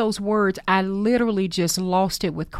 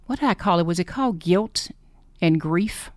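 ordinary delivery

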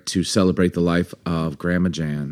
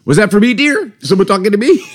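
imitating grandma; 11 semitones higher, 4 dB louder than usual. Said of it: "if Jen and I are in the kitchen".

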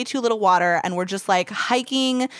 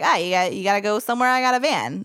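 a hint of Brooklyn van driver; Brooklyn accent; faster than usual. Traveler retelling the van driver's offer, light Brooklyn accent. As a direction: lightly imitate a Brooklyn guy. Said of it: "Why does he have a Brooklyn accent?".

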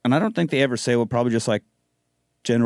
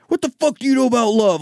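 mock angry dad; 11 semitones higher, faster than usual. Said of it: "Dad gets all sorts of pissed off".

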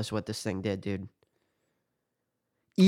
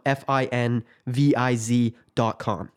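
slow spelling; slower than usual. Shown as a demonstration. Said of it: "If you're not familiar with that".

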